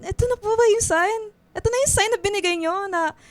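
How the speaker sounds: climbs high and loud, begging; pleading prayer. Acted. Begging God for Jake's love. (nagmamakaawang dasal, palakas at pataas)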